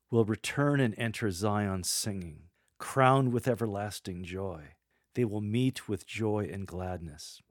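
glad, smiling proclamation; joyful. Shown as a demonstration. Lector announcing return to Zion, joyfully. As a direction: answer with joy, keep smiling. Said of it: "Keep smiling. So much joy here".

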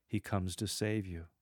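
intimate, tender assurance; loving. Shown as a demonstration. Lector to congregation after a long pause, lovingly. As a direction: say it lovingly, softly falling. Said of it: "Lovingly say".

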